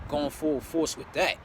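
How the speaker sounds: drawn out x0.7 repetition; slow emphatic repeat. Real, not acted. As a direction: stretch each word for weight. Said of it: "repeats phrase, slower".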